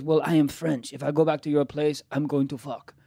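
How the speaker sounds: clumsy imitation of a French accent; bad French accent. French girl answers him about going home, bad French accent. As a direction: state it plainly in a badly faked French accent. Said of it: "My French accent's horrible".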